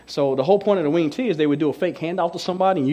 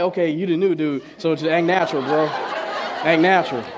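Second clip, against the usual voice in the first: laughing self-talk. Retold or imitated.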